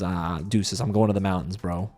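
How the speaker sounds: low, soft casual goodbye; mock chill Nick. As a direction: shrug it off, quietly. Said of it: "Nick just leaves and says".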